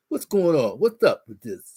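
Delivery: a husband faking a manly bass; mock manly bass voice. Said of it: "Getting the bass in my voice".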